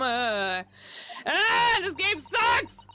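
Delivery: loud, high angry rant; frustrated rant. Real, not acted. Player ranting at the game after losing, angry and loud. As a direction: vent at the game.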